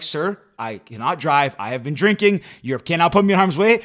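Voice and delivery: teen arguing with a cop, lightly acted seriousness; serious and tough. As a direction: play it stern to talk your way out. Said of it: "trying to be serious and, like, tough".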